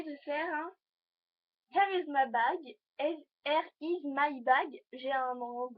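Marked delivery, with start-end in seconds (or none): 1.7-2.8 slow, deliberately bad English accent, a bit louder; hammed-up English accent, words spaced out. Viewer asked for a what's-in-my-bag, mock English accent. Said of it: "un accent anglais pourri". 3.0-4.8 very slow, stretched bad English accent, a bit louder; bad English accent, drawn out. Repeating her bag intro, extra slow mock English accent. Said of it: "un accent anglais pourri".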